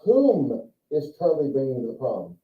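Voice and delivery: Whom is Charlie bringing to the prom? with Whom leaned on; formal, proper English question; proper English demo. Shown as a demonstration. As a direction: say the word Whom with weight and let the question fall at prom. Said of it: "are you ready?".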